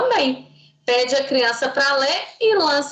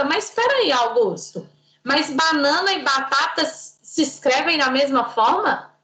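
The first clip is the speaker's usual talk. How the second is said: mock surprise. Shown as a demonstration. Teacher challenging child.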